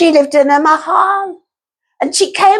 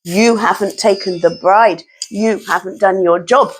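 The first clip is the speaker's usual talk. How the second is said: deep rat threat; 7 semitones lower than usual. Acted. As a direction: threaten low, then shout. Rat threatens others, building to shout.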